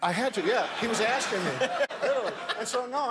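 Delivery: can't stop giggling while telling it; laughing. Real, not acted. Guest telling the host a story, laughing.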